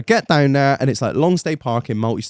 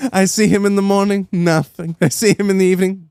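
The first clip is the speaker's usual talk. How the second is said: put-on higher, comic French accent; 5 semitones higher than usual. Kennel man reporting on the dog, higher French accent. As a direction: imitate a Frenchman marvelling at the dog. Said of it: "I think he's French".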